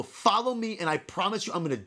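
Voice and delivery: high, threatening challenge, volume held back; restrained retold scream. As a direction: re-enact an enraged threat to a rival. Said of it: "I'm screaming".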